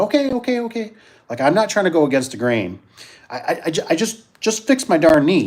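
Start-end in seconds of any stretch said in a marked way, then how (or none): 0.0-0.9 resigned okay. Retold or imitated. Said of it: "And I thought".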